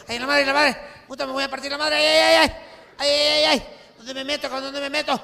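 loud, high, frantic wailing; vampire caught by daylight, high and loud panic; panicking vampire. Acted. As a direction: scream in panic as the light catches you.

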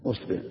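أصبر with opening u, "usb-"; teacher's demo of the u-initial أصبر; u on the hamza. Shown as a demonstration. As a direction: say أصبر starting US-, not AS-. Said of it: "ثلاث مع ضم الهمزة".

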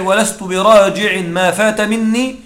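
slow, measured verse reading; reciting a classical verse; poem recital. Acted. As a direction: recite the line of poetry slowly. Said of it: "كقول الشاعر".

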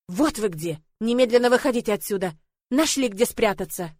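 loud, angry command; barked order. Acted. Lord ordering the girls out, angry and loud. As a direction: bark them out of hiding. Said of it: "рявкнул".

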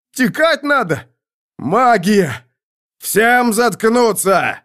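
high, loud battlefield cries; shouted alarm. A narrator's reading. Soldiers panic at magic and are silenced, high shouting. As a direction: cry out over the panic.

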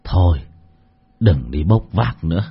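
put-on an old man gently handing over his savings; sincere. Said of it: "rồi thật thà bảo".

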